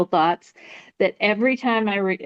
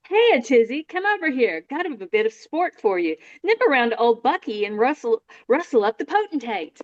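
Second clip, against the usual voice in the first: put-on posh young dandy; 3 semitones higher than usual. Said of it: "this scene".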